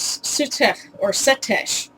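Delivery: Sutech ends guttural, Setesh ends in sh; kh versus sh. Shown as a demonstration. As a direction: rasp the end of Sutech, hush the end of Setesh. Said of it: "sometimes got turned into an S H".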